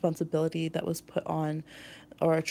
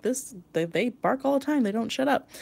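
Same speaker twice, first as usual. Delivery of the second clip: higher-pitched mock complaint; imitated exasperation; 5 semitones higher than usual. Owner griping about the pet's nonstop barking, mock exasperation.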